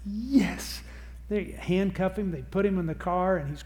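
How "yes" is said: gleeful yes. Retold or imitated. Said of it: "part of me that just went".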